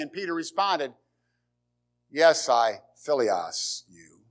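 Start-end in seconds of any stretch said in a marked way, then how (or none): 2.1-4.2 1 broken, humble reply. Acted. Broken Peter answers Jesus.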